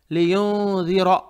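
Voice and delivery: लियुनज़िरा with held hum and a thick, rounded final रा; heavy ra. Shown as a demonstration. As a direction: finish लियुनज़िरा on a full heavy r. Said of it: "रा को मोटा पढ़ेंगे".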